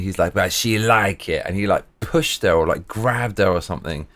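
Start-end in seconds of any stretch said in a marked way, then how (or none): 0.3-1.4 put-on slow, lightly done Italian accent; a hint of an Italian guy brushing it off, slowly; mild Italian accent impression. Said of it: "he just goes in his Italian accent".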